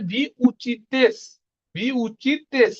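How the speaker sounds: slow, deliberate ভি উচিতেস; slow drill. Shown as a demonstration. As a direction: model it slowly for repetition. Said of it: "teacher drilling conjugation". (ধীর গতিতে অনুশীলন)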